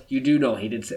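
lightly put-on French accent. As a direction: imitate a French woman's accent. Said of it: "in a French accent".

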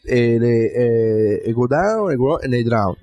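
halting, hammed-up Cuban accent; imitated Cuban accent. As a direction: stumble through words in a fake Cuban accent. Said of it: "him reading the lines in the Cuban accent".

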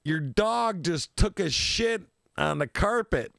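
put-on slow, drawn-out telling-off from the girlfriend; mock girlfriend complaint. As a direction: spell out the complaint slowly, half-mocking. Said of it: "and she's like".

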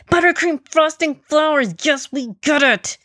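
high, exasperated finishing of another's sentence; irritated interruption. A narrator's reading. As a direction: cut in, irritated and mocking. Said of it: "irritated at the ant".

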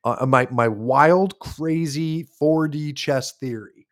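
talking around a pipe stem; slow words with a pipe in mouth. Real, not acted. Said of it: "let me relight this pipe real quick".

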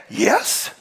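breathy whispered "Yes."; the wife's whispered reply; mock whispered yes. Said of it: "She said".

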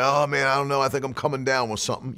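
quick, subdued imitation of someone feeling sickly; mock-glum, hurried murmur; mock defeated talk. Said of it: "You'll never hear me talk like that".

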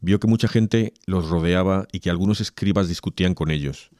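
solemn, measured liturgical reading; Gospel proclamation. Acted. Reader proclaims Mark's Gospel to the faithful, solemn.

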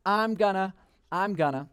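fading resolve. Retold or imitated. Youth repeats vows as the hype fades out. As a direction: let the excitement drain away. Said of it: "because you said".

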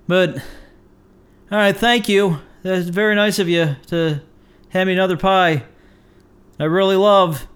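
halting, with long awkward pauses; acted reluctant acceptance. Handed a third pie, acted strained politeness. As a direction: struggle politely to sound grateful.

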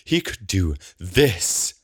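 high, mocking disbelief; high, incredulous contempt; scornful outburst. Scornful rant at bonehead magician.

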